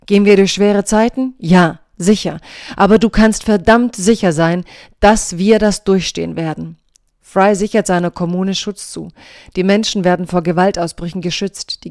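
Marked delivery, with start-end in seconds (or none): 0.1-6.8 quoted defiance, louder and emphatic; defiant. Retold or imitated. Reader quoting the mayor's reply to Trump, defiant. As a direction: read the retort with firm, punchy emphasis.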